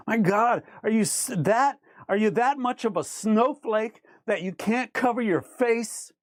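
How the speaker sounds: normal talking voice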